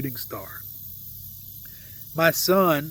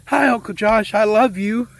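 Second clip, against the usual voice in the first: lightly voiced affectionate nephew, higher and louder; excited nephew; 4 semitones higher, 5 dB louder than usual. Uncle retells his nephew's loving greeting, lightly voiced eager nephew.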